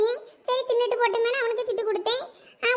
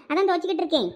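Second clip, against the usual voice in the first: usual speaking voice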